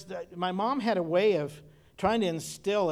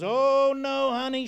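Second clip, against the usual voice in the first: grandma's high reply; 8 semitones higher, 7 dB louder, slower than usual. Retold or imitated. Grandmother retorting in quoted argument.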